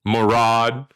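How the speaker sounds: "Moron" stretched like a pedantic teacher; mock pronunciation lesson. Shown as a demonstration. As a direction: slowly demonstrate "Moron" in two full syllables.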